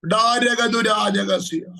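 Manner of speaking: slow, drawn-out tongues syllables; speaking in tongues. Real, not acted. Prophet breaking into tongues mid-prophecy, slow and drawn out. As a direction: let the tongues roll out slowly, stretched and loud.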